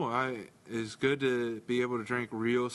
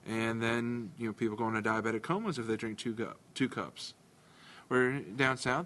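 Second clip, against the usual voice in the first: bad Southern accent. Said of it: "that was a horrible Southern accent".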